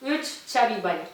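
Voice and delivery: talking through a mouthful of marshmallows; mumbled with cheeks packed; cheeks stuffed full. Real, not acted. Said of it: "yanağım acımaya başladı".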